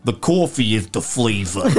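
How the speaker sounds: imitating someone mocking his Brooklyn accent. Coffee seller mocking the customer, exaggerated Brooklyn accent. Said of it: "and she mocks me".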